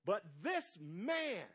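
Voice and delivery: very slow, deliberate reading of each word. Shown as a demonstration. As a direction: read it out slowly for the church. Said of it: "I'm gonna read this real slow".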